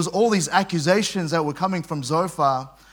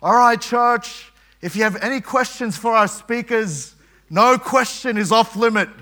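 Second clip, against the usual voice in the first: announcer; 5 semitones higher, 3 dB louder than usual. Retold or imitated. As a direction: lightly mimic the conference host asking for questions. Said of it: "then suddenly they announce".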